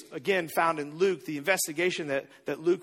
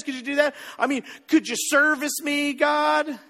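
hammed-up petitioning that climbs as it goes; mock wish-list pleading; 3 semitones higher than usual. Believer reads a list of demands to God, mock pleading. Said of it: "we would be like".

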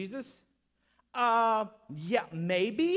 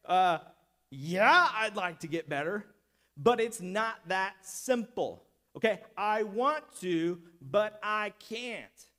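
disrespectful tone; 5 dB louder than usual. Retold or imitated. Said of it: "I don't think he's speaking in a respectful tone".

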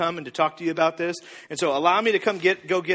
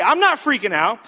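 mild mock protest, higher and louder; indignant protest; 4 semitones higher, 5 dB louder than usual. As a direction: push back as the accused spouse. Acted protest of accused spouse.

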